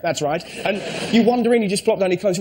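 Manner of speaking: ordinary talk, nothing marked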